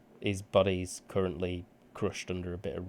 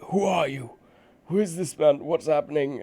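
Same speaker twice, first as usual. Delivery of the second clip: confused wizards; 8 semitones higher, 7 dB louder than usual. Acted. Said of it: "they're like".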